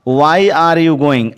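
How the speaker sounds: very slow, word by word, clearly spaced; slow dictation. Shown as a demonstration. Teacher dictating to the class, very slow and clear. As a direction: spell it out slowly for students to write. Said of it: "teacher dictates the English sentence".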